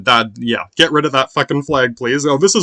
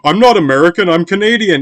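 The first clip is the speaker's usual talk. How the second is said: higher, louder mock insistence; mock Canadian protest; 5 semitones higher, 4 dB louder than usual. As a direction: play the offended Canadian for laughs.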